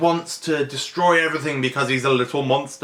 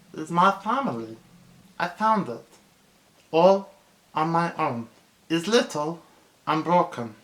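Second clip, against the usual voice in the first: halting, higher, aching alien voice; heartfelt Stitch; 5 semitones higher than usual. Retold or imitated. Stitch telling the councilwoman about his family, aching. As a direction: plead it with heartache. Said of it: "with the heartache".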